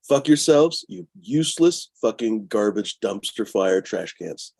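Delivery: heated, drawn-out cursing; angry insult. Real, not acted. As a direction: spit out a slow string of insults. Insulting those who reported him.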